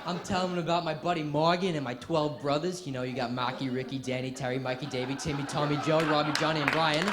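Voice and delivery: put-on Boston accent, names rattled off in a run; Will from Good Will Hunting. Student posing as Will to the Boston College interviewer, Boston accent. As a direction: list the brothers in a Boston accent. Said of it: "I become Will from Good Will Hunting".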